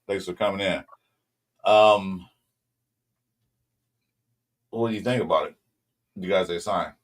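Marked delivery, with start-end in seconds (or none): 6.1-6.9 talking through the hiccups; hiccuping between words. Real, not acted. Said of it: "I got the hiccups".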